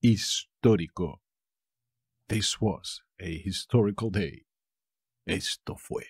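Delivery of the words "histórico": "Histórico" with a clear beat on TÓ; teacher showing the accent in "Histórico"; stress on first O. Shown as a demonstration. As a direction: set off "His", then stress the ó in "Histórico". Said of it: "Tiene un acento en la primera O".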